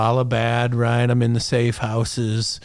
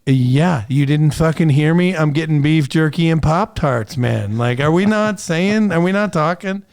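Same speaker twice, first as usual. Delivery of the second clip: mock exasperation; 5 semitones higher, 4 dB louder than usual. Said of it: "And I'm like".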